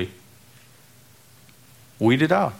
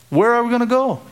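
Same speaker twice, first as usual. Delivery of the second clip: preaching call; 11 semitones higher, faster than usual. Real, not acted. Preaching climax, rhetorical question.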